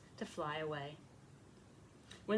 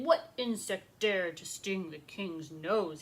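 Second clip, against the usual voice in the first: narrated shout; 3 semitones lower, slower than usual. Acted. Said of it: "He shouted".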